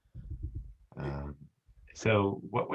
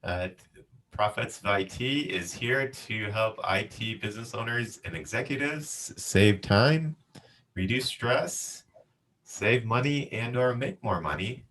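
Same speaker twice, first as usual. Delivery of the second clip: upbeat scripted show opening, a bit higher; podcast host intro; 3 semitones higher than usual. Acted. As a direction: read the show intro like a host welcoming listeners back.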